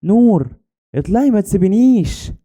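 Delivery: high, acted wail of a child; tearful pleading. A narrator's reading. Girl banging on tomb door begs friend, tearful pleading. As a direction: plead as a girl starting to cry. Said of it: "ابتديت أعيط وأخبط على الباب".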